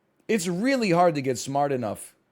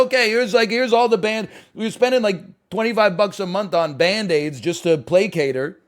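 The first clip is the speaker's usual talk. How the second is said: exasperated parent; 4 semitones higher, 5 dB louder than usual. Retold or imitated. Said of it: "I'm like".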